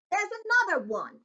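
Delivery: loud high shout. A narrator's reading. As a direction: shout it down the hall. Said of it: "Then he shouted".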